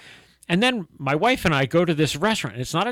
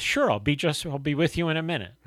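soft, obliging imitated waitress; reply gently and easily; nice waitress; 4 dB quieter than usual. Waitress answering a polite customer, soft and obliging. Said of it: "the waitress says".

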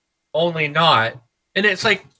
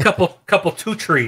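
put-on Chicago accent; 3 semitones higher than usual. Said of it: "It's that Chicago talk".

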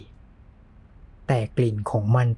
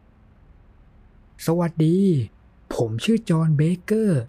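bright, raised friendly greeting; open and friendly; 5 semitones higher, much slower than usual. A narrator's reading. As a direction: greet a stranger warmly. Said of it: "ถึงเขาจะพูดด้วยเสียงที่เป็นมิตร".

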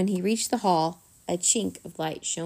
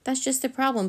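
higher-pitched squeaky voice; panicky squeak; 6 semitones higher than usual. A narrator's reading. Flit tells Drax the problem, panicky squeak. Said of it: "Flit squeaked".

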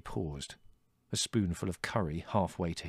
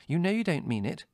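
high motherly reproof; severe; 10 semitones higher, 3 dB louder than usual. A narrator's reading. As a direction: correct him with mild sternness. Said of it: "said Mother severely".

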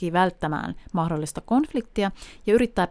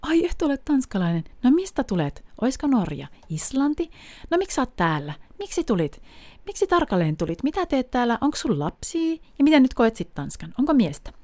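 curious questioning; 5 semitones higher than usual. Retold or imitated. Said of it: "siinä niinku pyörityksessä".

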